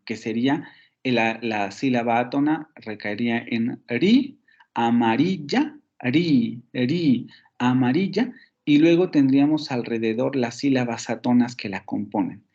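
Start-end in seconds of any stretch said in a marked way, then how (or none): 3.9-8.3 "ri" isolated as the stressed syllable of "amarilla"; tonic syllable shown. Shown as a demonstration. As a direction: lean on "ri" in "amarilla", teacher's demonstration. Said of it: "una sílaba tónica". ("ri" como sílaba tónica de "amarilla", marcada al enseñar)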